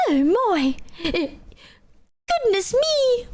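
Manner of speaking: hammed-up old British lady; mock British old-lady exclamations. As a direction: play an elderly British dear, drawn out. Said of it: "old and British".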